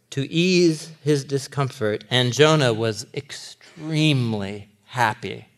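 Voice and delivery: slow, measured Bible reading; slow reading aloud from the text; scripture reading. Acted. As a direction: read the verse deliberately.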